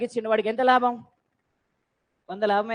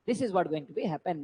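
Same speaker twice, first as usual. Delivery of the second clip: slow and deliberate, word by word; slow emphasis; 7 semitones lower, 9 dB quieter, much slower than usual. Shown as a demonstration. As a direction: spell it out slowly for the class. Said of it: "teacher stresses the key point". (నెమ్మదిగా నొక్కి చెప్పడం)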